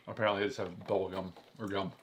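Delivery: talking while chewing gum; words around a wad of gum. Real, not acted. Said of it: "I'm, like, chewing loudly".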